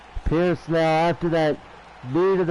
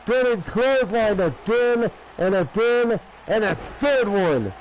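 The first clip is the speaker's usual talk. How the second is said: excited; 3 semitones higher than usual. Real, not acted. Excited play-by-play of clothesline.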